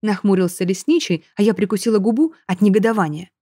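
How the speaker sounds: plain reading voice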